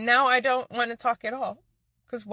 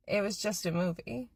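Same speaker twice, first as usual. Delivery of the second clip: dismissive; 6 dB quieter than usual. Retold or imitated. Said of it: "he looks at me dead in my face and says".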